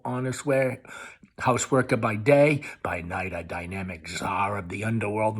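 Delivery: mocking loud fantasy rant; sarcastic. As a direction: taunt her with lurid lies. Sarcastic mock confession.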